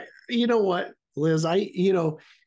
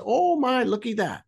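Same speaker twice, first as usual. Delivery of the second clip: mock amazed oh my; 5 semitones higher than usual. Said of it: "we get out and say".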